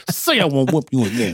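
words pressed through clenched teeth; through gritted teeth. Retold or imitated. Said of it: "talking through their teeth like".

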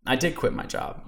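softly whispered echo of the line; hushed repeat. Real, not acted. To listeners, repeating it as a soft whispered echo. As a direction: let it fall to a near whisper. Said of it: "repeats the line for emphasis".

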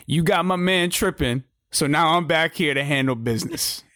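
lightly voiced wrestler's promo; her promo. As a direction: lightly play her calling out a rival. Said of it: "That's her promo".

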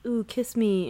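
mock seductive insect coo; breathy bug lady come-on; weird insect voice. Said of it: "in her weird insect voice".

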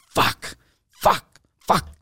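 whispered cursing under the breath; muttered curse. Retold or imitated. Cursing to himself at the garage counter, whispered. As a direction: swear to yourself in a whisper. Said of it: "just like".

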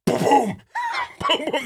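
high-pitched mock camera flash; imitated flash booms. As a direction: go boom like a giant flash going off.

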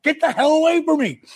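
high fast angry yell pushing them off; angry shout. Retold or imitated. Sting shoving the guys away from him, angry yell. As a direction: snap at them to back off. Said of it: "he just starts taking his badge".

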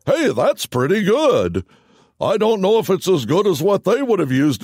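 patronising praise from a clueless MC; hyped-up emcee. Retold or imitated. MC judges Clay's voice in a high, patronising tone. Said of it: "And he's like".

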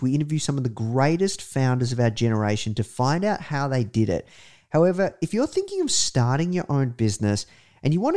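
bright podcast promo read. Acted. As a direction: sell it like a radio ad. Host reads podcast ad.

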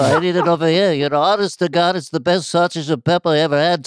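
lightly voiced New York old-timer; old Italian guy ranting about food; Regis Philbin. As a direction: grumble with a touch of TV-host bluster. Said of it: "a little bit of Regis Philbin creeping".

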